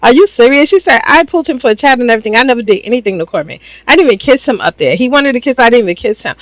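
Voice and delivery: rapid, indignant disbelief, rushing the words; shocked outburst. Retold or imitated. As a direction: fire it off fast like she can't believe the accusation. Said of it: "she jumps up at this point".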